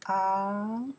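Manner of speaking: teacher sounding out Ang slowly in second tone. Shown as a demonstration. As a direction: stretch Ang with an upward glide. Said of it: "Because second tone here".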